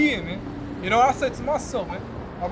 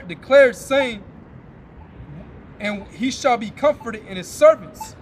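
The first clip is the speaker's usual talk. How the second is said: scripture reading; slower than usual. Acted. Preacher reading Maccabees to his listeners, slow and solemn. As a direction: intone the verses like a preacher at the pulpit.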